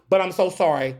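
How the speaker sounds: "so sorry" said as a breezy fake apology; mock sorry. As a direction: toss off the sorry like it costs nothing.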